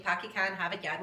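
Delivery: mock Boston accent, kept low; stereotype Boston accent. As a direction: imitate the clichéd Boston accent. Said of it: "like, Boston accent".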